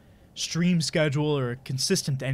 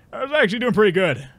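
excited; 8 semitones higher, 7 dB louder, faster than usual. Real, not acted.

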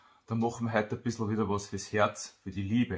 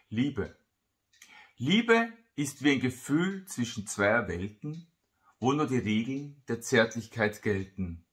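measured poetry reading with lifted openings and falling line ends; poem recitation. Acted. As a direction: recite a love poem, pausing after each line. Recites his love poem.

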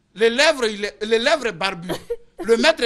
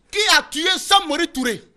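teacher asking; 5 semitones higher than usual. Retold or imitated. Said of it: "j'ai posé la question à mes élèves".

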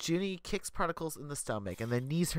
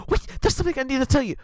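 high, fast, urgent shout-out; urgent call; 13 semitones higher, 8 dB louder, much faster than usual. Acted. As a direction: blurt it out in a rush before it's too late. Prodigal calling out urgently.

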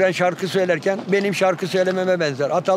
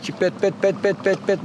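a breeder mimics how the bird sings; bird song imitation. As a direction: rattle the notes off like the bird. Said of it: "Şimdi böyle yapıyor kuş".

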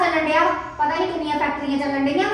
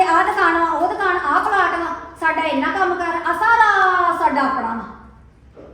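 drawn-out mock boast, dragging the last line slowly; mocking his showing off; slower than usual. Wife to her sister, mimicking husband's slow boastful show-off. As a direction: ham up the husband's bragging. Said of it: "ਇਹ ਮੈਨੂੰ ਵਿਖਾਉਣ ਡੇ".

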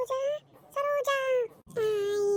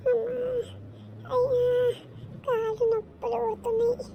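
put-on old woman's groan; 3 semitones higher than usual. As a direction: complain like a weary old granny. Old woman groaning about aching legs.

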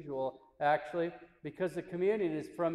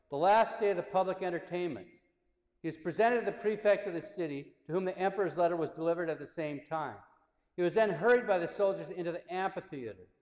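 slightly raised, emphatic reading voice; solemn narration. A narrator's reading. Priest reads saint's martyrdom to listeners, solemn narration. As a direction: read the account aloud in measured phrases.

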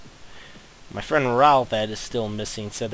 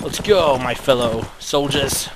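loud gung-ho soldier; 3 semitones higher, 4 dB louder than usual. Pretend. Rallying troops into battle.

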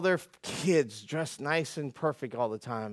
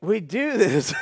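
shout; 4 semitones higher, 8 dB louder, slower than usual. Real, not acted. Preacher shouting the key line.

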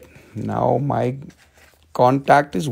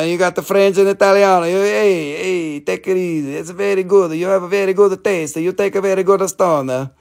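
put-on Italian accent; 4 semitones higher than usual. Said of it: "talk a little more like an Italiano".

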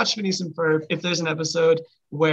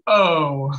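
disappointed; 3 dB louder than usual. Shown as a demonstration. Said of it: "such a disappointed".

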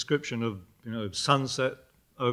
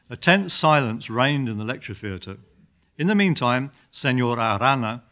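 measured lecture-hall reading of a comic passage; lightly dramatised literary narration; story reading. A narrator's reading. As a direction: read it out with emphatic opening words.

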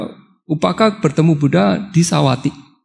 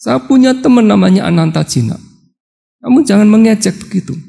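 challenging tone; 4 semitones higher, 3 dB louder than usual. Retold or imitated. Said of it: "mulai menantang".

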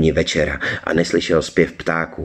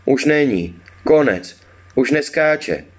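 high-pitched little goblin; short phrases in a raised creature voice; 7 semitones higher, slower than usual. A narrator's reading. Forest goblin remarks on the dead foal, high goblin voice. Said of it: "řekl skřítek".

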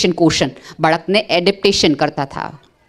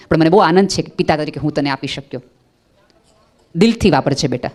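lovingly; 4 semitones lower than usual. Shown as a demonstration. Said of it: "બહુ પ્રેમથી કયો".

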